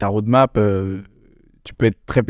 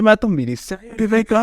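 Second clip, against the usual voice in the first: incredulous; 10 semitones higher than usual. Retold or imitated. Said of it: "Je dis".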